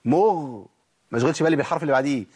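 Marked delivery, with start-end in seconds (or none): 0.1-0.7 مغ- with the gh fully voiced from its articulation point; articulated ghayn. Shown as a demonstration. Teacher showing students the articulation point, carefully articulated. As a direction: hold a clear, voiced ghayn in مغ-. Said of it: "أحقق المخرج".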